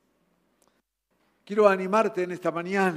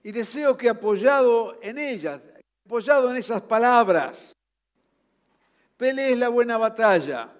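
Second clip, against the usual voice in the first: forceful exhortation; 5 semitones higher, 7 dB louder than usual. Acted. Preacher quoting Paul's exhortation.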